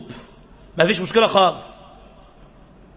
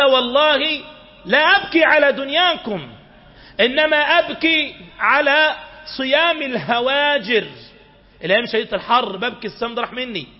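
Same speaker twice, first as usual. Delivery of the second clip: higher, slower, grieving plea; mild weeping; 4 semitones higher than usual. Acted. Dying Muadh answering why he weeps, mildly tearful and slow. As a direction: voice a dying man's lament, a touch tearful.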